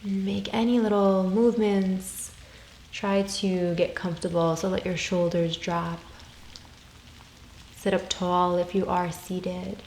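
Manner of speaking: calm, unhurried meditation voice with long pauses; guided meditation. Real, not acted. Yoga teacher guiding listeners through soul questions, calm meditation voice. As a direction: gently guide them inward, leaving space after each phrase.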